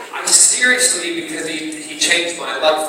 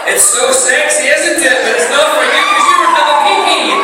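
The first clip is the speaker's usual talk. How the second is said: higher, louder mock Scottish lilt; a playful Scottish brogue tease; teasing Scottish; 10 semitones higher, 5 dB louder than usual. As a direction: flirt in a hammed-up Scottish accent. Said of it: "the Scottish".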